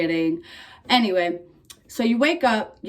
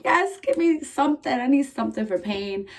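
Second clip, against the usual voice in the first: pleading for relief; 5 semitones higher than usual. Retold or imitated. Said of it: "I'm like".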